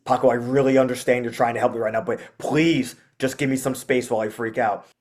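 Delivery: quick earnest appeal, stressed please; very serious talk. Shown as a demonstration. Frustrated owner begging Paco for some space, very serious. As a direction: talk to the dog like a regular human. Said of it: "change my voice to talking to him very seriously".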